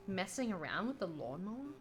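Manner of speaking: puzzled, rising question; incredulous. Real, not acted. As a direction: repeat it in disbelief.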